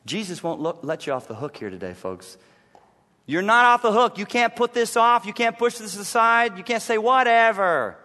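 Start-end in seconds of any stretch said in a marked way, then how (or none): 3.3-8.0 forceful preaching. Real, not acted. Preaching pressing the point.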